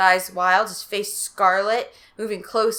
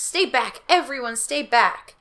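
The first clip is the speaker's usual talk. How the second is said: warning; 5 semitones higher, slower than usual. Acted. Margaret swinging axe.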